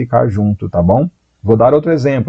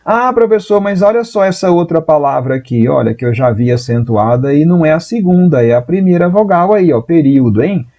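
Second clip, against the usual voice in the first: objecting student; 4 semitones higher than usual. Retold or imitated. Voices a student raising an objection.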